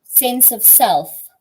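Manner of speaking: slowed down, each word spelled out; slow and clear for a listener. Real, not acted. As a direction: sense of self, said slowly and clearly. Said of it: "When it comes to?".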